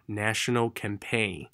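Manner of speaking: "National campaign" slowly, full first vowel. Shown as a demonstration. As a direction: open out the a of "National". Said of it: "圆满一点啊".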